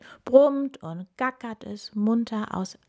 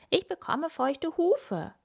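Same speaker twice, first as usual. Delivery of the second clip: higher, slow complaining; whiny pony; 9 semitones higher, slower than usual. A narrator's reading. Kim complaining to friends, high slow whine. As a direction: whine about wet hooves.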